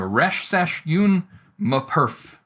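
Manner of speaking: reads "resh, sesh, yun, m perf" in one flowing run, in a self-mockingly bad Egyptian accent; a rough ancient Egyptian accent, said smoothly after the halting first try. Shown as a demonstration. Lecturer voicing the translated hieroglyphs in her horrible Egyptian accent. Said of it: "you know, horrible Egyptian accent".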